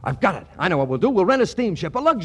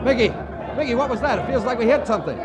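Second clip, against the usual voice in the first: alarmed; 6 semitones higher, faster than usual. Acted. Ship strikes something, alarm.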